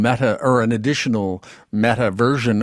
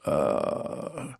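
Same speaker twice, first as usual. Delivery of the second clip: slow, arch British accent; much slower than usual. Shown as a demonstration. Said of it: "If I were to ask you to say this sentence".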